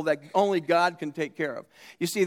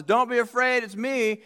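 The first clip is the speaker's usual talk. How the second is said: higher, mildly raised mock yell; acted calling out; 5 semitones higher than usual. Preacher as Jesus calling to frightened disciples, mock yell. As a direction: call reassurance out, without a full shout. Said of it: "Jesus yells out and says".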